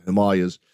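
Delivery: "Himalayas" as said in India, him-AH-lee-as; Indian pronunciation. Shown as a demonstration. Podcaster repeating the local way for listeners, "Himalayas" stressed on AH. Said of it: "But if you're there".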